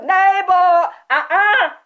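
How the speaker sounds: loud, high exclaim; shouting relief. Real, not acted. Telling viewers loudly how glad she is, shouting. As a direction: yell it out, relieved.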